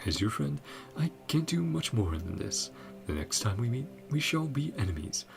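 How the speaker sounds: lilting attempt at a Russian accent; practised Snezhnayan accent. Player practising on a farewell letter to a friend, put-on Russian accent. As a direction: practise a Russian accent, pitch often lifting. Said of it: "practice trying to get better at the accent".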